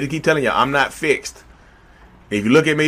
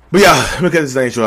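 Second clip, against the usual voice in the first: breathless from standing; puffing a little between words; out of breath; 5 dB louder than usual. Real, not acted. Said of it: "I'm getting out of breath".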